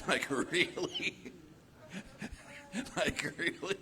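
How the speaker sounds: high, laughing "really?"; amused, incredulous chuckle; laughing disbelief. Real, not acted.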